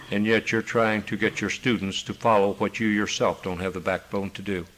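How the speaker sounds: kindly, gently. Retold or imitated. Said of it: "I said to him very kindly, very gently".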